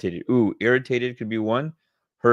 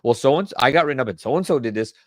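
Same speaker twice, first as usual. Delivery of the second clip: lightly voiced whiny employee; a hint of a sulky complaint; imitating a griping staffer; mock complaining; 4 semitones higher, 5 dB louder than usual. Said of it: "I feel like I'm complaining".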